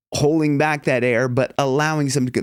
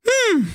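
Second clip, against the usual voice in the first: much higher hum through the nose; nasal hum. Shown as a demonstration. Coach showing the nasal hum again. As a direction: lips closed, hum up high. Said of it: "like that".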